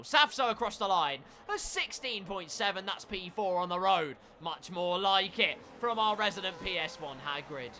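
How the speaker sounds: energetic race commentary, building; live play-by-play. Real, not acted. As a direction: call the lap as it unfolds.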